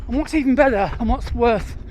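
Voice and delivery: talking with a mouth full of gels; words round a mouthful of gel. Real, not acted. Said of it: "sorry, I've got gels in my mouth".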